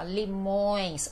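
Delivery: "limões" slowly, with a long nasal ÕES; pronunciation model. Shown as a demonstration. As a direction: softly model "limões", stretching the nasal ending. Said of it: "Aproveitando também como aula de pronúncia".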